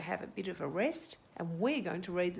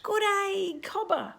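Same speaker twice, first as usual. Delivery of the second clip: high, loud chirpy chorus greeting; tiny voices; 11 semitones higher, 7 dB louder than usual. Acted. Hundred tiny ants greet Cobber from below, high and loud. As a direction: squeak it out like a crowd of tiny ants. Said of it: "came a hundred tiny voices".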